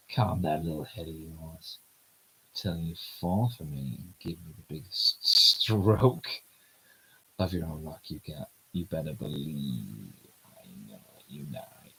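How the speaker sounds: lightly voiced cocky guy, low; low male lead voice. Voicing the male lead teasing the heroine, low smooth voice.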